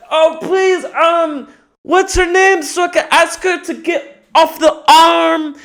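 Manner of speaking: very high, loud strained voice; hammed-up falsetto ow; high pained yelp. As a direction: squeak through the pain. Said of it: "I'm like".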